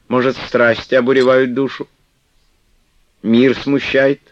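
выше и громче, уговаривая; матушка ласково убеждает; ласковая игуменья. Acted. Манефа допытывается. (Манефа уговаривает Флёнушку остаться, ласково)

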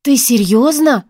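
slow, astonished question; can't believe her ears; surprised. A narrator's reading. Friend stunned by Raya's confession, slow surprised. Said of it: "услышала я удивлённый голос подруги".

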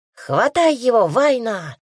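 excited high shout; shouting girl. A narrator's reading. Older sister urges younger to grab cat, shouting. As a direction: yell it out in the chase. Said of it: "кричала та".

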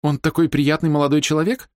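ordinary delivery, nothing marked

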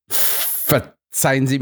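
slow, halting apology; stammering. Acted. The guard apologizes to Holmes and Watson, stammering. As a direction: stumble over the words, embarrassed. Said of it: "stammelte er".

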